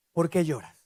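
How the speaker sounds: low, soft mock husband asking ¿Por qué lloras?; husband mumbling ¿Por qué lloras? low and soft; clueless husband. Clueless husband voiced, wife upset.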